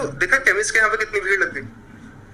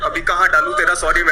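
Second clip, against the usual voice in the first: gangster retort; 2 semitones lower than usual. Pretend. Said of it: "Anurag Kashyap के universe".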